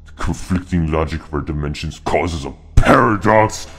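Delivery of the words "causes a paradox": higher, louder theatrical announcement; dramatic reveal. Acted. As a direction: punch it up as a grand reveal.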